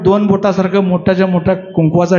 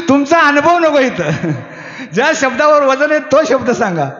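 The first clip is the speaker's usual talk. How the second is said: laughing; 5 semitones higher than usual. Real, not acted. Preacher laughs at an audience answer.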